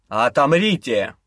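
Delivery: slow, low demonic command; otherworldly voice. Acted. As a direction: boom it from beyond. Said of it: "неизвестный потусторонний голос".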